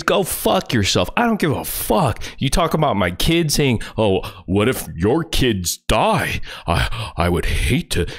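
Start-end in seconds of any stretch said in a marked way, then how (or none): 4.0-8.1 slow, whiny mocking imitation of a troll; mock fake concern. Streamer mimics the troll's fake pity toward his kids, slow mocking whine. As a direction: sneer out his phony sympathy slowly.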